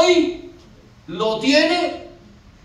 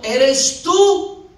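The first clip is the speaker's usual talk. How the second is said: calling out; 3 semitones higher, 4 dB louder than usual. Acted. Pedro calling to the figure.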